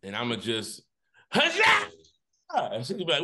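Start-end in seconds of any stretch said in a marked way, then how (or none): 1.3-1.9 high, loud victory whoop; hammed-up huzzah; triumphant cry. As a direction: cheer like a knight who won. Triumphant exclamation in story.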